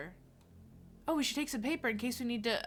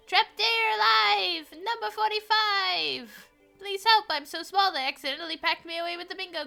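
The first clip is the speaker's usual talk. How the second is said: high, loud squeaky bingo caller; tiny announcer voice; 10 semitones higher, 8 dB louder than usual. Acted. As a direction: call it out tiny and shrill.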